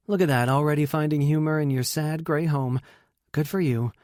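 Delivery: hint of a playful female guest; teasing guest. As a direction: tease with mock congratulations. Voices Emily teasing host.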